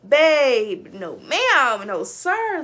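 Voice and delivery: loud, laughing no ma'am; laughing refusal. Real, not acted. Laughing off a shower with crazy men around.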